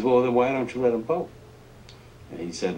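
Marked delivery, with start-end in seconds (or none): 0.0-1.3 higher, louder needling question; pointed Johnson challenge. Retold or imitated. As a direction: corner him with the question.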